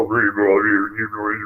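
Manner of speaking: drawn-out "ree" calls; imitation of a distant creature's cry; imitated creature noise. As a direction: mimic a Bigfoot's repeated call. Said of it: "they're making that noise".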